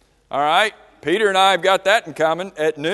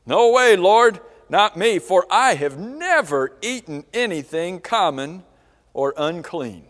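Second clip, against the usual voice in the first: acted-out proud objection to the Lord; proud refusal; 3 dB louder than usual. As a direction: object with indignant pride. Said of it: "a moment of pride".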